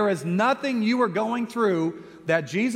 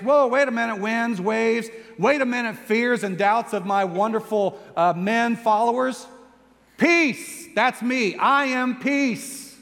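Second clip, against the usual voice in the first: raised, commanding voice calling out to the storm; commanding cry; 3 semitones higher than usual. Acted. Jesus commands the storm, calling out raised and commanding. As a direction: call out over the wind, taking charge. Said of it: "He was crying out to his circumstance".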